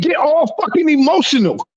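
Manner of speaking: real argumentative heat; heated ranting. Real, not acted. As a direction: rant with emphatic, falling punches. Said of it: "Screaming and cursing everybody out?".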